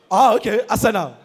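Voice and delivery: put-on "Arsenal" in a Benin accent; Victor Ikpeba. Pundit confirming to the broadcaster, Benin-accented "Arsenal". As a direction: say "Arsenal" firmly with three full syllables. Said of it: "the custodian of the Benin accent".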